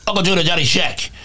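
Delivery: slurred sh-heavy mobster voice; light Tony Soprano imitation; Tony Soprano impression. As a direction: turn every S into an ish. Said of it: "You know, when he talks, uh".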